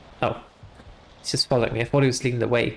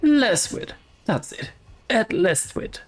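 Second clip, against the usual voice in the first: ghostly gardener voice; 5 semitones higher than usual. Acted. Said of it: "the ghostly voice of a headless gardener".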